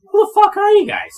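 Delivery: put-on high, loud scolding of a frail old man; angry old man. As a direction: chew him out like a furious old tinkerer. Franklin confronts the strangers.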